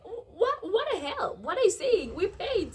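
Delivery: high, loud outraged yelling; furious indignant shout at the waitress; lost my mind. Retold or imitated. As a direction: yell it in disbelief, losing it. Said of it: "I lost my mind at that time".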